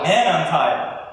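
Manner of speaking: offhand weary groan; casual sigh. Shown as a demonstration. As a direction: say it like a tired sigh. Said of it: "we're like".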